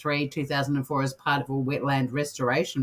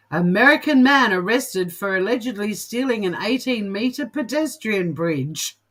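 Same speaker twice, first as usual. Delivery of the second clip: headline read-out; 4 semitones higher, 4 dB louder than usual. Real, not acted. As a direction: announce an absurd headline, stretching the last words. Reads out absurd news headline.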